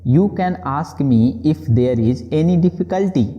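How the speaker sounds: very slow, word by word; slow model sentence. Shown as a demonstration. Teacher modelling the English phrase slowly for students. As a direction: spell it out slowly for learners. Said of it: "इसको अंग्रेजी में आप बोलेंगे".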